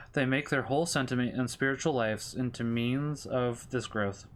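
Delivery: measured Catechism read-aloud; steady, formal reading of a religious text; formal scripture reading. Real, not acted. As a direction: read doctrine out evenly, phrase by phrase.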